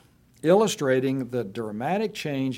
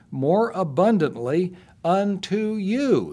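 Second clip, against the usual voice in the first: scripture reading. Acted. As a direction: read Paul's tears with feeling. Reading Second Corinthians aloud.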